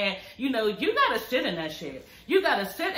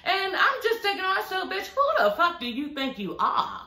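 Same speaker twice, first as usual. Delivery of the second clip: high-pitched, laughing retelling of a pissed-off friend; half-laughing mock outrage, pitched way up; mock angry Martell; 9 semitones higher than usual. Retelling how Martell snapped at her former friend, high-pitched and laughing. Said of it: "Martell was pissed".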